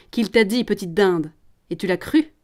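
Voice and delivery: mocking question after a short scornful laugh; snigger, then taunt the girl; sneering. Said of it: "Le promoteur ricane". (ricanement moqueur)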